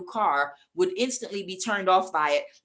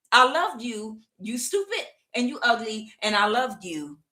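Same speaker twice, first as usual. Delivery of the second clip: mock husband's rant; 4 semitones higher than usual. Voicing the cheated husband.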